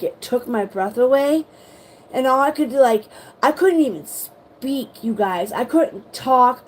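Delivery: ordinary talk, nothing marked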